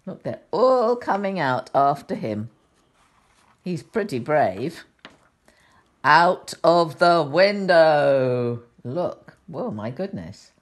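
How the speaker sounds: put-on gentle storybook reading for children; sweet old lady. A narrator's reading. Reads picture book to children.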